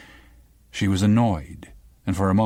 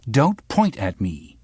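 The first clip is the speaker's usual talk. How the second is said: rising anger; 3 semitones higher, 3 dB louder, slower than usual. Acted. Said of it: "the girl's anger rising".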